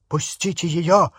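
desperate high yell. Acted. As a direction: scream at them to let go. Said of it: "орал Рон".

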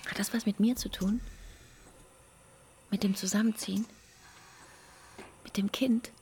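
hushed, voiceless whisper. Acted. Partner to partner, pressing questions in a whisper. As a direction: ask it all under your breath.

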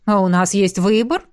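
dry, lightly ironic ask; a hint of wry irony; ironic question. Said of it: "иронично уточнила Элисандра".

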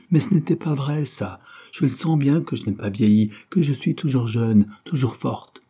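put-on burning with desire, insisting she is young; ardent. Christine insists to Claude, ardent. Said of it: "De sa voix ardente".

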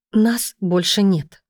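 медленно, с дрожью в голосе; slow trembling, barely holding on. Acted. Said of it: "дрожащими губами вымолвила Катя". (дрожащим голосом, медленно)

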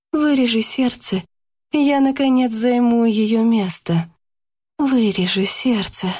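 sinister demand. A narrator's reading. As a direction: demand it with growing menace. Karina's voice emerging.

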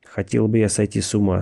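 words forced through clenched teeth; through gritted teeth. Acted. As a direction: grit your teeth and say it. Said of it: "сказал он сквозь зубы".

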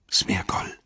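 hushed, whispery call of SMEAGOL; soft call. A narrator's reading. Frodo to Gollum in the dark, a hushed call. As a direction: call Smeagol under your breath. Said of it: "sagte er leise".

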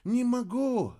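a high sighing cry; fairy's high sighing no. A narrator's reading. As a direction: sigh it out, helpless. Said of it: "вздохнула фея".

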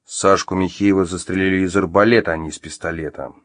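understated, strict correction; stern. Acted. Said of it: "строго сказал Артём".

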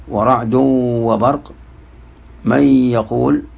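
slow, من يقول with the n melted into the y with a held nasal hum; nasal merging demo. Shown as a demonstration. Teacher demonstrating merging with ghunna, slowly. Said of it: "وأربعة بغنة".

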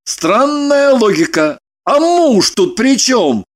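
slow, caustic mockery; a touch of venomous sarcasm. A narrator's reading. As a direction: needle her slowly. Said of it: "он ядовито заметил".

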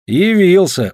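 smirking. A narrator's reading. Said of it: "усмехнулся он".

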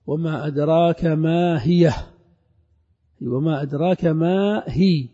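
slow measured recitation of the verse; teacher reciting the verse; Quran recitation. Acted. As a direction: recite it unhurried. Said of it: "قوله تعالى".

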